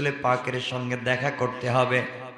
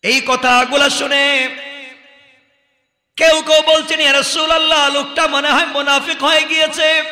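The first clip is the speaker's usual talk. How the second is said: high, ringing sermon delivery with long-held line ends; impassioned preaching; 12 semitones higher, 10 dB louder than usual. Acted. Preacher retelling the companions' rebuke to a crowd, impassioned. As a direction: project each phrase like a preacher to a crowd. Preacher narrates at full force.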